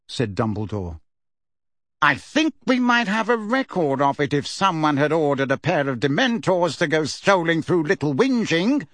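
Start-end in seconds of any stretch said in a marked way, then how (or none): 2.0-8.9 barked. Acted. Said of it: "barked Fudge".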